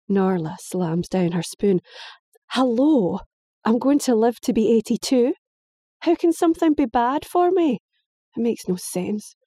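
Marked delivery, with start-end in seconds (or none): 2.5-9.3 high, exasperated protest; indignant girl. Acted. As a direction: throw the question at them, much higher. Daughter voiced, high.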